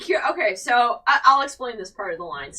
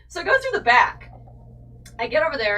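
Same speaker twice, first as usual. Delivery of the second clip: normal talking voice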